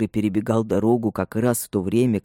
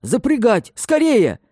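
much higher, louder hurried cry; urgent shout; 13 semitones higher, 5 dB louder, slower than usual. A narrator's reading. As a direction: yell the order across the room. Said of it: "крикнул он вошедшему слуге".

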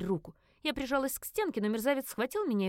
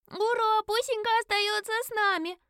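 put-on high loud child's cheer; cheering little girl; 13 semitones higher, 5 dB louder than usual. A narrator's reading. Little girl cheering the pet stays, high and loud. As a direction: celebrate keeping the pet.

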